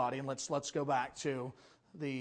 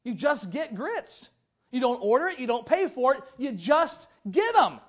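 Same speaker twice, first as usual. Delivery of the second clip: imitating Randy; 6 semitones higher, 8 dB louder than usual. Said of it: "He says".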